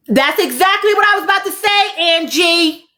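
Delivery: real excited call-out; excited agreement. Real, not acted. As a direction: burst out agreeing with the chat. Excited reaction to a comment.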